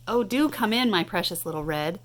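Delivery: light cackling fake granny; a hint of a wolf playing granny. Truck fakes a granny to lure Red, lightly cackling. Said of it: "cackled Tank in his best granny voice".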